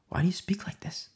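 Saul's question whispered unvoiced. Preacher voicing Saul to the congregation in a whisper. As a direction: breathe it out as a whisper.

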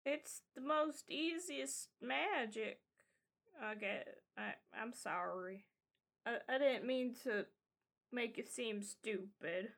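lightly voiced child, growing quiet and apologetic; naive kid. Kid apologizes to the adult for the remark, sheepish child voice. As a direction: start puzzled, sink into a soft, sheepish apology.

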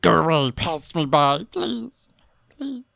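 high pleading, fading to a tiny voice; acted frightened plea, thinning out; desperate prayer. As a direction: beg in terror, dwindling away. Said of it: "he prayed".

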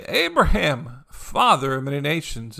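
drawn-out name, lightly hollered; mock yell. Somebody hailing Abraham on his walk, mild mock yell. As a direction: imitate a mild yell across the way. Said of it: "somebody'd yell across the way".

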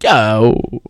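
laid-back airline captain with drawn-out "uh"s; calm pilot announcement. Acted. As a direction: play down trouble over the cabin intercom. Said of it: "when a pilot comes on the radio".

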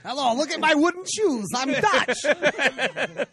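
put-on high, silly Dutch accent. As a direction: play a goofy Dutch character with a Dutch accent. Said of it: "get her to do a Dutch accent".

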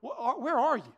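crying out. Retold or imitated. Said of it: "I remember crying out to God".

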